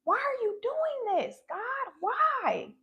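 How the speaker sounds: mild crying plea, voice catching on why; half-sobbed question to God; retold tearful cry to God. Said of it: "I was like".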